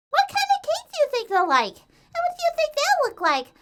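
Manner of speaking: rapid, very high squeaky babble; excited chatter. A narrator's reading. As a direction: rattle off questions without a break. Excited pony chattering non-stop.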